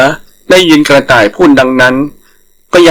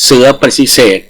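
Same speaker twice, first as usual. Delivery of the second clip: ordinary delivery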